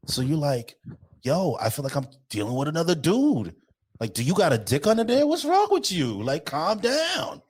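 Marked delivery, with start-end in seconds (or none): 1.2-7.4 mock exasperation. Acted exasperation at tough women.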